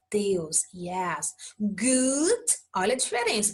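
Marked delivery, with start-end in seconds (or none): 1.6-2.4 long oo in "Good", rising; double-o sound. Shown as a demonstration. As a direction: draw out the oo of "Good". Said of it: "Tem dois Os".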